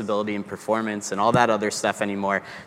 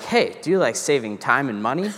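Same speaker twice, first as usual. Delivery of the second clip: playful pitch; 3 semitones higher than usual. Retold or imitated. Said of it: "I basically am like".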